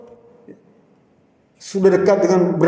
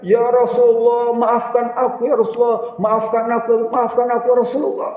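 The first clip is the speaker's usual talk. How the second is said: tearful plea for forgiveness; 4 semitones higher than usual. Acted. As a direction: beg forgiveness through tears. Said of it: "sambil menangis berkata". (Ukasa memohon maaf sambil menangis)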